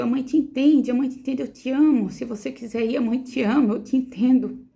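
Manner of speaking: mais alto e agudo, voz de quem implora; súplica emocionada ao filho. Retold or imitated. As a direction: implore ao filho que viva, com emoção crescente. Mãe implora ao bebê, chorando. (mãe implorando ao bebê que dê um sinal, emocionada)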